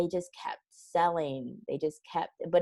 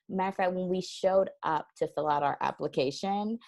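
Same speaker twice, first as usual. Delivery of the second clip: ordinary delivery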